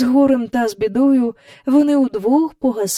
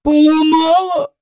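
glum; 8 semitones higher, 6 dB louder than usual. Acted. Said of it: "понуро сказала Елін".

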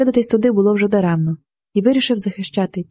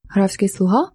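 surprised echo question; slower than usual. Acted. Marshal echoing the lady's words back in surprise. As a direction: repeat it back with a rising, disbelieving lilt. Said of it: "перепитав мимоволі маршалок".

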